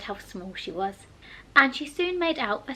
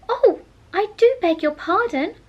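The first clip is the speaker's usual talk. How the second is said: high, louder hurried apology; hasty cry; 8 semitones higher, 8 dB louder than usual. A narrator's reading. Alice hastily apologises to the frightened mouse, high and loud. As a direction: blurt the apology out fast. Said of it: "cried Alice hastily".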